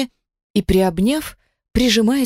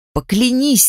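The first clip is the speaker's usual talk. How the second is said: higher, urgent acted outcry; desperate cry; 6 semitones higher, 4 dB louder than usual. A narrator's reading. Woman begs him to swear, crying out desperately. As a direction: cry out in despair. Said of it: "закричала срывающимся от отчаяния голосом".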